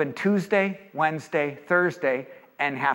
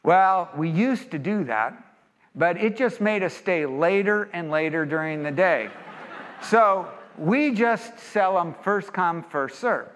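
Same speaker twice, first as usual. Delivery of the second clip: lightly imitated slow Texas drawl; easygoing Texan shopkeeper, unhurried; slower than usual. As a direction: stretch it out with a hint of Texas. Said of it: "in their beautiful Texas drawl".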